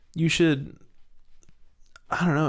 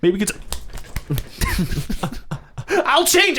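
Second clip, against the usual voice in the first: high laughing shout of out; shouting bouncer; 13 semitones higher, 4 dB louder than usual. Pretend. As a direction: throw them out, yelling.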